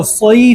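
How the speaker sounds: सैफ said full-mouthed, savouring it; full-mouthed saif. Shown as a demonstration. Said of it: "स्वाद निकालना है, मुंह भरकर". (सैफ मुंह भरकर, स्वाद लेकर)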